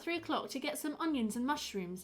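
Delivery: high, lilting village wife; apologetic wife character. Acted. Wife corrects her alibi to the inspector, high apologetic voice. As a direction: pitch it high, chatty then apologetic.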